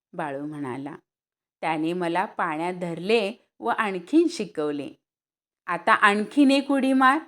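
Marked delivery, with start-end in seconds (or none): 5.7-7.2 urging call. Acted. Boys urge one more jump.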